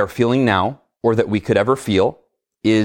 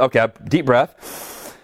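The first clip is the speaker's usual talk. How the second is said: calming self-talk; slower than usual. Retold or imitated. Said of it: "but I went".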